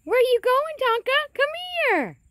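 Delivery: high, loud call across the field; calling the puppy. Real, not acted.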